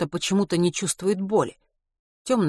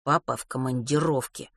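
muttered through gritted teeth; grudging mutter through teeth; 3 semitones lower, 3 dB quieter than usual. Acted. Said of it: "сквозь зубы процедил Матвей".

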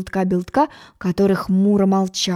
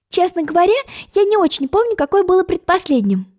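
cautious; 10 semitones higher than usual. A narrator's reading. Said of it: "осторожно сказала".

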